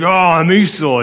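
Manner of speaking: hammed-up hungry hunter bursting in; Esau. Esau bursting into the tent after the hunt, hammed-up and loud. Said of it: "just bursts in there".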